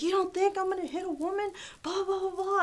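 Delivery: high-pitched retold challenge; indignant mimicked threat, running into blahs; mock threat. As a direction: imitate a man squaring up in an argument. Retold threatening quarrel face to face.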